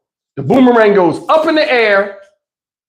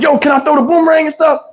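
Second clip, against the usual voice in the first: put-on eager kid; 6 semitones higher than usual. Kid asking permission.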